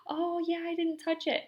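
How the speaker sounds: put-on high childlike voice, pleased with herself; proud toddler. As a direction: play the proud little girl.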